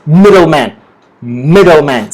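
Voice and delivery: "middleman" with MID strongest, tune falling; stress on MID. Shown as a demonstration. Teacher introducing the next word, stress on MID in middleman. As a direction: model "middleman", weight on its first syllable MID. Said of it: "The stress is on the word mid".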